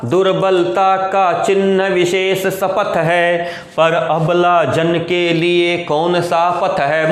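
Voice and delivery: slow, measured chanting of verse; verse recitation. Acted. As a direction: intone the lines on a level note, drawing out syllables. Chants the verse being explained. (धीमे, लयबद्ध पद्य-पाठ)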